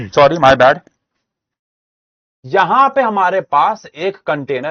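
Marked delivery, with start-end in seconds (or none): 0.1-0.8 sheepish laugh through the words; chuckling sorry to the students; laughing apology. Real, not acted. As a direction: laugh it off after the cough. Apology after coughing.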